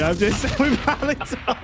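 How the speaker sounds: different phone voice. Shown as a demonstration. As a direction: flip into the customer-service phone voice. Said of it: "I just put on my different voice".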